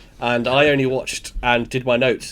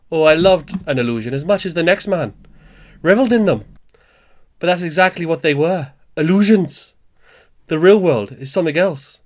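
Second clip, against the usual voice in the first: higher, declaimed amateur Welsh; attempted Welsh accent; 4 semitones higher, 4 dB louder than usual. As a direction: act out a monologue in a put-on Welsh lilt. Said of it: "I'm no good at the Welsh accent".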